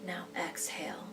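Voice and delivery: slow, soothing meditation voice with long pauses; guided meditation. Real, not acted. Therapist leading listeners through breathing out anxiety, guided meditation. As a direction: guide them gently through the breathing, leaving space after each phrase.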